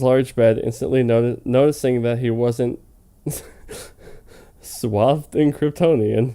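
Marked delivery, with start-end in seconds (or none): 4.6-6.3 laughing. Real, not acted. Giggling through reading.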